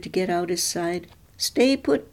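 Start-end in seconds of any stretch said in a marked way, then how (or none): 1.4-2.1 firm command. A narrator's reading. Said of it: "Pearl told him".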